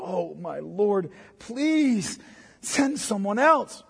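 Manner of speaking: slow, drawn-out pleading plea. Shown as a demonstration. Preacher showing how we read Moses, slow pleading. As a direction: beg slowly, drawing out please. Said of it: "It sounds like he's pleading".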